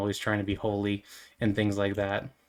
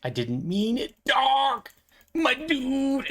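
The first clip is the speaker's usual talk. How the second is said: bro apology; much slower than usual. Retold or imitated. Apologizing to offended rat folk, hammed-up bro voice. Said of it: "And then we would go".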